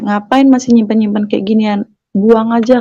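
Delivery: plain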